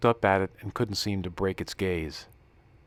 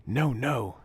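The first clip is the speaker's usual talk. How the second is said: breathy voice; 5 semitones higher than usual. Acted. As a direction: breathe the words out, hushing. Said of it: "she said in a breathy voice".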